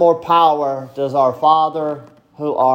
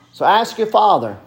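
emphatic call; 4 semitones higher than usual. Acted. Preacher pressing his congregation to ask, higher and emphatic. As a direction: press the call home with force.

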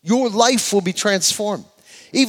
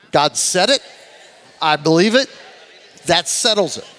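convincing, preachy. Shown as a demonstration. Preacher has people tell the person next to them, convincingly. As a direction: preach it to your neighbor. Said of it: "like you're trying to convince them of it".

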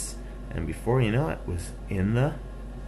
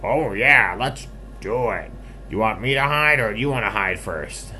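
loud, higher-pitched piggy voice; eager piggy; 5 semitones higher, 7 dB louder than usual. Acted. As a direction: jump at the game as an excited pig. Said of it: "the piggy said".

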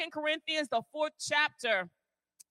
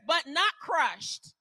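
slow, with stress on not; slow emphasis; much slower than usual. Shown as a demonstration. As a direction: say each word deliberately. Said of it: "listen to what the word says".

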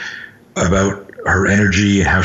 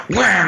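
high, punchy "wham"; acted hit sound effect; imitated punch impact; 12 semitones higher than usual. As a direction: throw the word like a blow landing. Acting out the punch.

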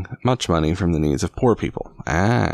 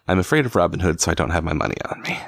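mocking paraphrase; much faster than usual. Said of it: "he says to Robin Hood".

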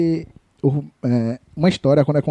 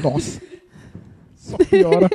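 exasperated; 12 semitones higher, slower than usual. Real, not acted. Groaning at a joke.

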